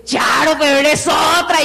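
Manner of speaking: put-on old friends exclaiming in astonishment; amazed exclamation. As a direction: gasp at how much she has changed. Old acquaintances amazed by her change.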